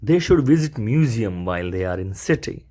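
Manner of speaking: slow teaching read. Shown as a demonstration. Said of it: "વાક્ય બનશે".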